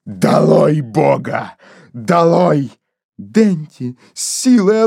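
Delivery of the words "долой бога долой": lower, slow, brooding; low stubborn repeat. Acted. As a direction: grind it out, still seething. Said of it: "повторял". (Кейси твердит, низко и медленно)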